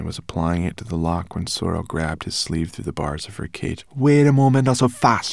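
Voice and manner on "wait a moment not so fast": hissed. A narrator's reading. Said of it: "she hissed".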